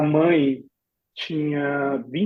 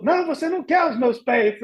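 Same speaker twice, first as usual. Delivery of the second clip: host mother voice; 8 semitones higher than usual. Retold or imitated.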